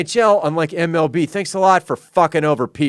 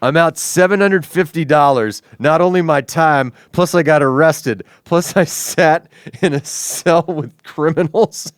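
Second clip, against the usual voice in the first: petulant whine; 2 semitones higher than usual. Retold or imitated. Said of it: "He's like".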